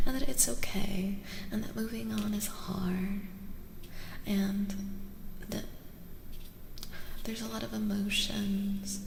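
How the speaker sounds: gentle, hushed near-whisper; breathy, intimate tarot-reading voice. Real, not acted.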